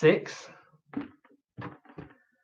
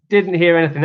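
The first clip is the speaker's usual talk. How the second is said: louder; 3 semitones higher, 5 dB louder than usual. Shown as a demonstration. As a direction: repeat it louder, teasing.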